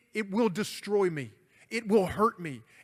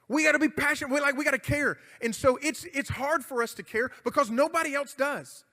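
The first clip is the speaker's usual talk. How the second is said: fervent preaching; 5 semitones higher than usual. Real, not acted. Preacher urging the crowd.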